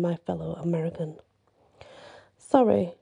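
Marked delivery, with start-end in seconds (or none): 2.4-2.9 sultry, inviting "Sorry"; seductive. A narrator's reading. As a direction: purr it seductively. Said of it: "the blonde said in a seductive way".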